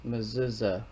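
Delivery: Mezuzah as muh-ZOO-za; online pronunciation. Shown as a demonstration. Showing viewers the online version, Mezuzah pronounced muh-ZOO-za. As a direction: say Mezuzah with z sounds, stressing ZU. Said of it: "this is how you pronounce her name".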